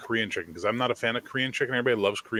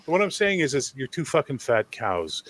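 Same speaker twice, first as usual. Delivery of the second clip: ordinary delivery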